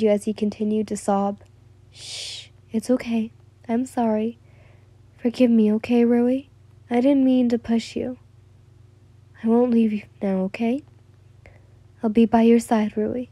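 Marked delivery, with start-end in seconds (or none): 1.9-13.3 reassuring. Acted. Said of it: "you reassured him".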